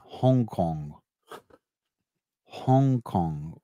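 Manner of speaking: exaggerated Asian accent on a place name. Shown as a demonstration. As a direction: demonstrate a put-on Asian accent. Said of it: "Asian accent?".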